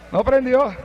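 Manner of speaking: soft, falling "No prendió" as a final verdict; flat answer. Acted. Narrator confirming the car won't start, "No prendió" soft and falling.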